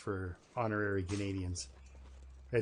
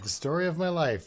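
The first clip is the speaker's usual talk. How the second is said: mock lament; 6 semitones higher, 6 dB louder than usual. Mock self-pity.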